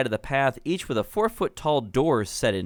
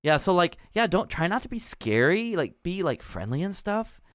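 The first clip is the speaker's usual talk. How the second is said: put-on valley girl gnome; 3 semitones higher than usual. Clotilda keeps talking to player.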